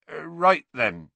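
high, flustered restart; hesitate, then try to carry on; losing the thread. A narrator's reading. Hagrid resuming his first lesson, losing his thread. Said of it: "seemed to have lost his thread".

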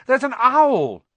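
loud, high, slow urgent call. A narrator's reading. Harry warning sleeping Hagrid, loud slow call. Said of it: "said Harry loudly".

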